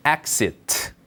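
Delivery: "exit" in careful English, crisp final t; English pronunciation. Shown as a demonstration. Teacher shows learners how the sign reads, careful English "exit". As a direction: model "exit" as two clear syllables, falling. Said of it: "한번 보시면 발음은".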